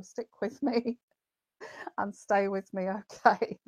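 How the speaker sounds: playful laughing appeal to viewers; laughing plea. Real, not acted. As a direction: beg them to stay while giggling. Laughing while begging viewers to stay.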